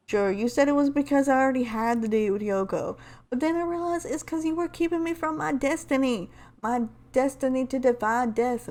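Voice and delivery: lightly put-on character voice reading a letter; a hint of game-heroine accent as she reads aloud; Lifeline impression. Lifeline reading Octane's letter aloud, lightly in character. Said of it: "trying to do my best Lifeline impression".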